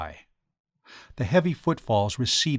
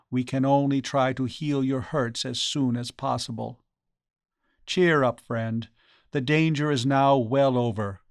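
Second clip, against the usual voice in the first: gentle reassurance; 3 semitones higher than usual. Acted. Priest telling his friend the danger is over, reassuring. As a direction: comfort him, easing down from distress.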